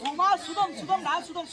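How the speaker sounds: சுதம் repeated to drill the word; correcting pronunciation. Acted. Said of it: "சுதம் என்றால் சுகமா இருக்குன்னு அர்த்தம்".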